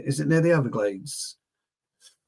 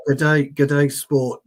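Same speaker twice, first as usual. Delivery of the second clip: badly faked Australian greeting; attempted Australian accent; 5 dB louder, much slower than usual. Host trying to greet an Australian viewer, amateur Australian accent. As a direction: try an Aussie accent, a little louder on the greeting. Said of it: "Australian accent".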